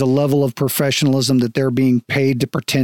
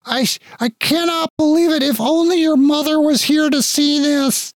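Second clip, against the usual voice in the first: emotional father; 13 semitones higher than usual. Acted. Father hugging his son, high and moved. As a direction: overcome at having him home.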